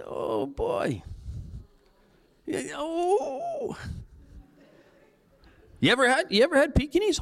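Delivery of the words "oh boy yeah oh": mock queasy laugh. Reacting to dog barbecue.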